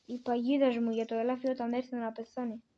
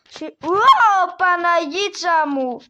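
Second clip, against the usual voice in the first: exasperated sigh; 5 semitones higher, 12 dB louder, slower than usual. Real, not acted. Exasperated exclamation.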